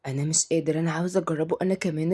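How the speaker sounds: low, restrained longing; tempted little boy. Acted. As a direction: confide a temptation to your twin. Boy tempted, confides in twin.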